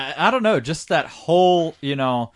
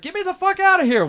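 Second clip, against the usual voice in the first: high, fast panicky plea; hammed-up terror under the semi; mock panic; faster than usual. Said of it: "Martin's like".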